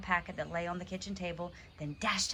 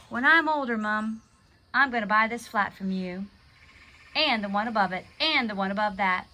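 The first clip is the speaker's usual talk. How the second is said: put-on louder, eager boyish announcement; excited; 7 dB louder than usual. A narrator's reading. Tom excitedly telling his mother his plans.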